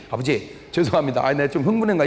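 son apologising to his father, low and meek. Retold or imitated. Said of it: "그러면 이 동생이".

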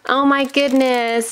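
ordinary talk, nothing marked

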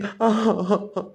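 a short, choked sob. Acted. Brother calling for Manali chokes on a short sob. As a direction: break into a brief sob. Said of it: "नको रडू दादा".

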